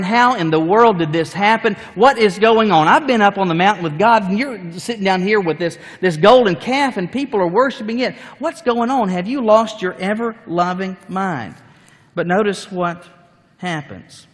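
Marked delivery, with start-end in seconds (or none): 0.0-11.5 loud, high angry preaching of Moses; indignant shouted questions; furious confrontation. Acted. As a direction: rage at his brother over the calf. Moses confronting Aaron angrily.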